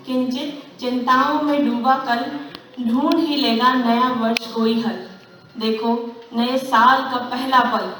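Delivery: measured Hindi verse recital; stage recital of a New Year poem; poem recitation. Acted. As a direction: recite it line by line, with poise.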